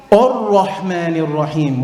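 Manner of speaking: Ar-Rahman said with a heavy, dark first a; Ar-Rahman Ar-Rahim with the alif made too heavy; wrong heavy a. Shown as a demonstration. Teacher shows the version to avoid, heavy a. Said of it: "So it shouldn't be".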